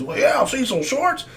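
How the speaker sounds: high-pitched mock superfan; high mocking impression of a fan; diehard fan. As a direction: put on a diehard fan's voice, way up high. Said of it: "you're gonna have certain fans".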